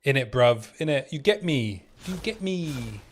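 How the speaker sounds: mock London slang; lightly put-on London lad voice; London accent. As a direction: toss it off in a playful London accent. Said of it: "London voice lines".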